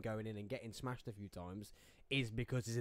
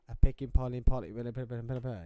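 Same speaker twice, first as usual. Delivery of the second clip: mock tongue-twister; 2 semitones lower, 7 dB louder than usual. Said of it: "You know when you say".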